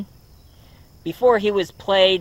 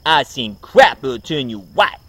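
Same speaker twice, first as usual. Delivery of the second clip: a touch louder, brash comic voice; Eddie Murphy impression; 5 dB louder than usual. Vlogger voicing Eddie Murphy's Winston line, mild brash impression. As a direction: toss it off like a cocky comedian. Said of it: "that's what it sound like if Eddie Murphy played".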